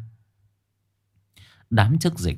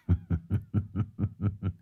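put-on drunken laugh; 2 semitones lower, 7 dB quieter than usual. A narrator's reading. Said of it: "giọng lè nhè".

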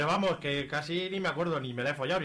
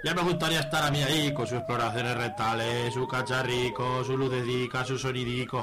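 a light Aragonese lad voice, flustered; panicked teen; 3 dB louder than usual. Acted. Javi in the locker room panicking, flustered lad voice. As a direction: rattle through it like a worried lad. Javi's panicked inner monologue.

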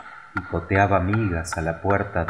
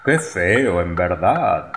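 echoing councillors; slower than usual. A narrator's reading. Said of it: "repitieron ambos consejeros".

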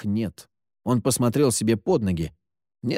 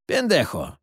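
exasperated scolding, pitch jumping up; indignant outburst; 7 semitones higher than usual. A narrator's reading. Stranger scolds Terry for carrying a saw, indignant. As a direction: scold the boy, incredulous. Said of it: "возмутился голос из темноты".

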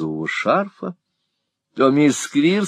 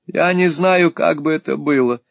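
sobbing; 7 semitones higher than usual. A narrator's reading. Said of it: "всхлипывала мисс Сквирс".

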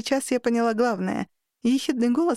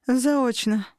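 grumbled; 3 semitones higher than usual. Acted. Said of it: "буркнула та".

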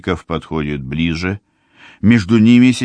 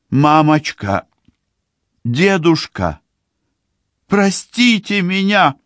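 pleading; 10 semitones higher than usual. A narrator's reading. Daughter begs her mother and grandfather for forgiveness, high and pleading. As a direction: beg them for forgiveness. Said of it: "умоляет Циби".

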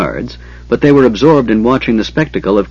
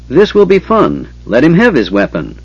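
high, gleeful dragon command; 5 semitones higher than usual. Acted. Dragon commanding the guards to arm Caramon, high and gleeful. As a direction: relish the game, then give the order. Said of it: "the dragon commanded".

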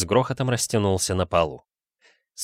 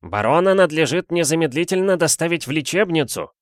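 shout to the crowd; 8 semitones higher, 3 dB louder than usual. A narrator's reading. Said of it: "истопник крикнул".

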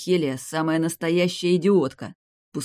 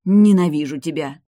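much louder cry of hate; hateful shout; 10 dB louder than usual. A narrator's reading. Vampiress screaming her hatred at the hero. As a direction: throw the hatred at him.

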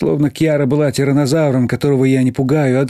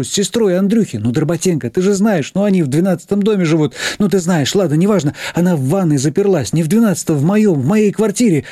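rattling off; 7 semitones higher than usual. Acted. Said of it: "затараторила я".

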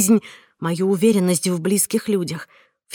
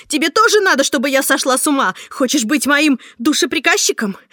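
much higher, louder, relentless scolding; furious tirade; 7 semitones higher, 5 dB louder than usual. Acted. Heroine berates Marta for the cruel prank, furious shouting. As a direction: keep yelling, outraged and sarcastic.

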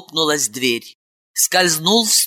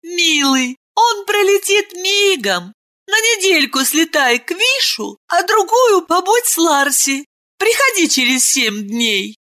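tender; 13 semitones higher than usual. Acted. Ailen tenderly calming her husband, much higher. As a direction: soothe him gently.

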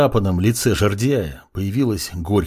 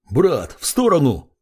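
yelled warning, pitched higher; yelling; 4 semitones higher than usual. Acted. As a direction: shout the warning across the room. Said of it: "Завопил Балашов".

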